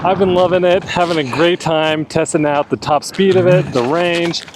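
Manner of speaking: muffled behind a helmet visor; inside a helmet. Real, not acted. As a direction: talk from inside a full-face helmet. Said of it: "let me get my helmet off so you can hear me a little bit clearer".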